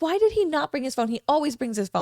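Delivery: high-pitched exasperated complaint; retold upset. Wife retells complaining about husband's missing phone, mildly upset. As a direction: replay mild indignation at him. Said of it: "I was so upset because".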